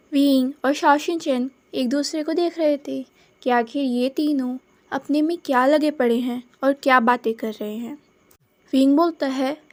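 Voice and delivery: ordinary delivery, nothing marked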